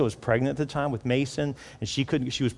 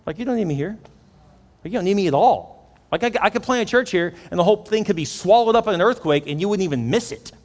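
higher, rising mock protest; acted exasperation; 7 semitones higher, 4 dB louder than usual. Would-be planter protesting he isn't needed here, exasperated. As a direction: build from dismay to loud, high exaggeration.

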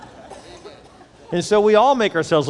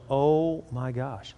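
amazed; 4 dB quieter, much slower than usual. Retold or imitated. Retells amazement at reading the text.

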